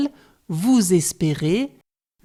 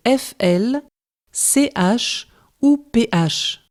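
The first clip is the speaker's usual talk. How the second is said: slow spelling; 4 semitones higher, slower than usual. Shown as a demonstration. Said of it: "Faites bien attention aux groupes de consonnes".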